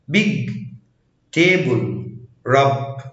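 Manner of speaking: "big", "table", "rub" with a clear voiced b; B like Arabic ba. Shown as a demonstration. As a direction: sound the B fully at start, middle and end of big, table, rub. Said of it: "مرة تانية".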